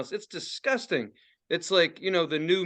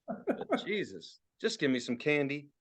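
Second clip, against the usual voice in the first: mock weary plea; 4 semitones lower, 8 dB quieter than usual. Pleading for candy.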